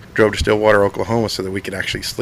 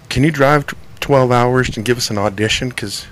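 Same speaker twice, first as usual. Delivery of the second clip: mock venue booker; 3 semitones higher than usual. Mocking a venue's request.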